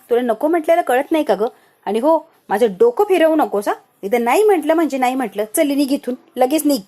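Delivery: loud, sharp order to get out; angry dismissal. Retold or imitated. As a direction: drive her out of the room, furious. Sanika angrily sends Shravani away.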